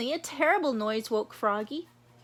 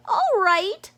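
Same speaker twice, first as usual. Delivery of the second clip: high, louder rabbit voice; Missus Rabbit; 8 semitones higher, 7 dB louder than usual. Acted. Missus Rabbit agreeing with the chief, high eager voice.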